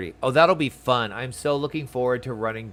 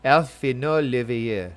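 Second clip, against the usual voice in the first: attempted French accent; 4 dB louder than usual. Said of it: "French accent wasn't that bad".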